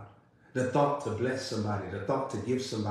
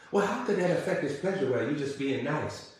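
quicker, higher voice of an objector; mild mock objection; 3 semitones higher than usual. Preacher voicing a listener's objection to his caution, mildly protesting. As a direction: voice a doubter's protest, lightly imitated.

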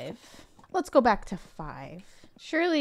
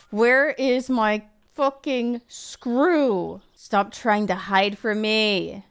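slow, loud and fuming; angry demand; 7 dB louder, much slower than usual. Real, not acted. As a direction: drag out each furious word. Yelling at the lost screw.

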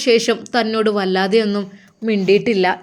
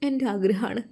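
tearful plea; 3 semitones higher, 5 dB quieter than usual. Acted. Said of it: "Farsana ബീവി കരയുകയാണ്".

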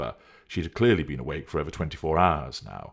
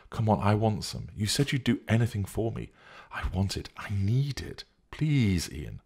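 pleading; 4 semitones higher than usual. Acted. Woman begging for drugs.

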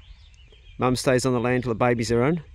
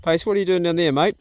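raised voice calling across the paddock; calling the dog; 4 semitones higher, 4 dB louder than usual. Real, not acted. Owner calls his dog from afar, raised voice. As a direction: call him back up the hill.

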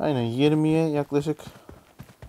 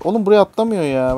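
frustrated outburst; 6 semitones higher, 8 dB louder than usual. Real, not acted. Frustrated at failed jump.

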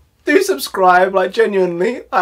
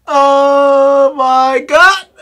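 exasperated; 4 semitones higher, 4 dB louder, much slower than usual. Real, not acted. Overcome by laughing fit.

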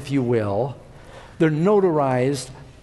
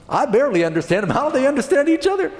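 fast, higher-pitched incredulous question; mock bafflement; 8 semitones higher, faster than usual. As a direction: voice a baffled listener, hurried and rising high. Baffled listener, voiced in a story.

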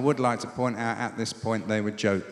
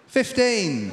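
higher falling number call; bingo caller; 6 semitones higher than usual. Acted. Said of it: "update the bingo calling".

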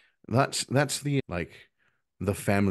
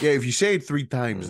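put-on New York accent; 4 semitones higher, 3 dB louder than usual. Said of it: "I don't know why I'm from New York".

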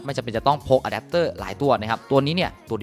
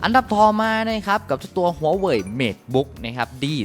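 hype product intro; 5 semitones higher, slower than usual. Real, not acted. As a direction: present the next model like a showman. Announcing next laptop model. (ประกาศชื่อรุ่นอย่างตื่นเต้น)

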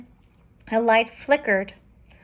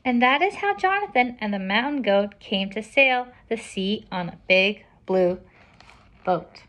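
lively, projected storybook reading; picture-book narration. A narrator's reading. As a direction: read it out to children, slowing at the end. Reads picture book aloud.

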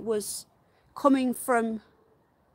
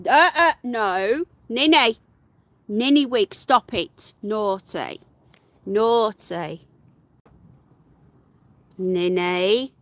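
louder slow telling-off; scolding pet; 3 semitones lower, 5 dB louder, slower than usual. Real, not acted. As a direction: scold the pet firmly but fondly.

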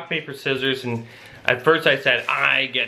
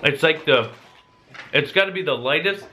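talking through a mouthful; mouth full. Real, not acted. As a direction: chew while you speak. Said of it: "I'm talking with food in my mouth".

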